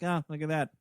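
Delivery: soft, low, unimpressed aside; mock total indifference, quietly; imitating someone barely bothered by it; nonplussed. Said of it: "totally nonplussed about alien invasions".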